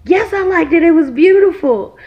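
high, loud mock-tearful protest; retold emotional outburst; imitating tearful child. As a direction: insist like a boy overcome with tears. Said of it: "busted out in these tears".

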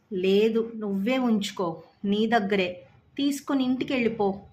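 firm, lightly tearful plea to leave; crying out firmly. Acted. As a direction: push his friend away through tears, understated. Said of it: "ఏడుస్తూ గట్టిగా చెప్పాడు".

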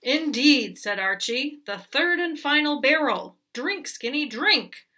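commanding goat. Acted.

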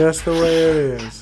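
loud, high announcer read. Pretend. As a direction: sell it like an ad. Mock announcer line.

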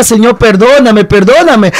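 pleading with God through remembered tears; crying out to God. Retold or imitated. Teenager alone in a hole crying to God, loud tearful plea. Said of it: "Y le decía".

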